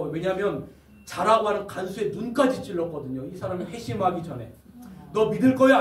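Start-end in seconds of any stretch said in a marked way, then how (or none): 5.1-5.8 1 bullying shout. Acted. Prisoner bullies cellmate into believing.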